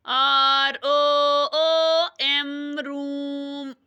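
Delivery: teacher spelling slowly for the class to echo; phonics drill. Shown as a demonstration. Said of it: "जो मैं इस पे लिखूंगी board पे आप वही पढ़ना".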